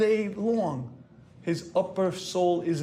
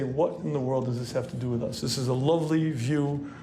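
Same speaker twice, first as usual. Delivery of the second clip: skeptical listener; 4 semitones lower than usual. Retold or imitated. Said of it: "you may say".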